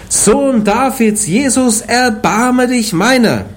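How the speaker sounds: high, slow, drawn-out plea to Jesus; crying out. A narrator's reading. Blind beggar calls out to Jesus by the road, high pleading cry. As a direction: beg for mercy, stretching each word. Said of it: "fing er an zu schreien und zu sagen".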